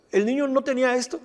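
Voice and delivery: high, quick incredulous question; retold disbelief. Pastor questions the boy's mother, retold disbelief. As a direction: ask it as if you can't believe it. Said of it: "estaba que no lo creía".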